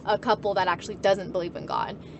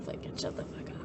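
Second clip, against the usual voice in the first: laughing mock outburst; 14 dB quieter than usual. Quoting herself to her parents.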